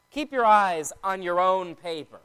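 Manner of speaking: teacher's instruction weighted on "own"; stress on "own". Shown as a demonstration. Teacher might say it to pupils, stress on "own". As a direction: put the emphasis on "own". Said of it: "that emphasis goes on the word own".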